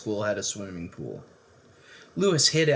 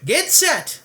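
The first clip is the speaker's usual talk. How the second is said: louder, higher coach's bellow; 5 dB louder than usual. Acted. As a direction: call the start across the pool. Coach starting the race.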